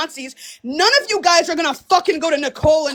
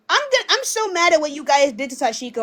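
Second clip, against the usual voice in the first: mocking fake sad. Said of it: "you guys are always going to be like".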